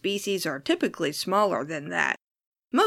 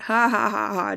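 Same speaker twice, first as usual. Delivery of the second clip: fake laugh. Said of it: "just kidding".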